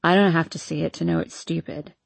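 a hint of a drunk young man; town drunk.

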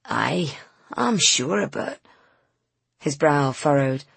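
put-on a grumpy old man doubting her; gruff old Scots man. Old van seller doubts the young woman, gruffly. Wooly's held voice.

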